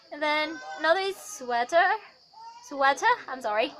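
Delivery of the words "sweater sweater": American "sweater" with the final R sounded; American accent. Shown as a demonstration. Teacher giving another American example, American accent. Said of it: "in American, then in R P".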